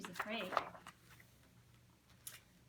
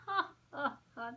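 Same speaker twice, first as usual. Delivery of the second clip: mama's laugh; 3 semitones higher than usual. Acted. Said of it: "Mama laughed".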